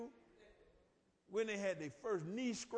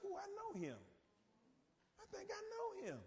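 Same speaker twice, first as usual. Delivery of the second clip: higher, soft, hesitant "I think I know him"; half-recognising a name in the paper; unsure reader; 12 semitones higher, 6 dB quieter than usual. Retold or imitated. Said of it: "read somebody, and said".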